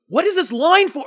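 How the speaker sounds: high, insistent puzzled question; puzzled friend. Retold or imitated. Friend Ethan at the convention, high puzzled demand. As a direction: pester about the mystery line.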